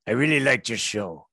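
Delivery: lightly done Norwegian accent, a mock big metal singer; a hint of Norwegian in the vowels, half-hearted; bad Norwegian accent. Comedian retelling a Norwegian fan's words, mild Norwegian accent. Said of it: "I'm massacring this accent".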